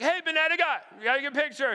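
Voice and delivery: high, excited call to banana guy; imitating a thrilled teen spotting banana guy; retelling the daughter calling out to banana guy, high and excited.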